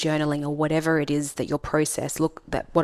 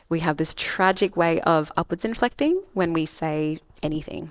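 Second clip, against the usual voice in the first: tune falls on "anything"; firm falling end on "anything". Shown as a demonstration. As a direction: drop the pitch down on "anything" to finish. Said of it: "That was a downwards inflection".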